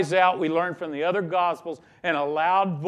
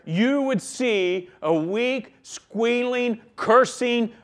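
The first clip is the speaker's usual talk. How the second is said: mocking squeal; 5 semitones higher, slower than usual.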